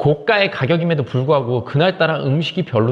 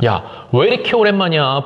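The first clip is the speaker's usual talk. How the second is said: plain; 2 semitones higher than usual. Retold or imitated. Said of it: "항상 오바를 해줘요".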